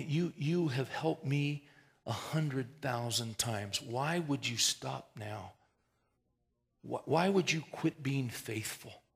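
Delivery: slow, earnest plea to the Lord; slow pleading prayer. Retold or imitated. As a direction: draw each plea out.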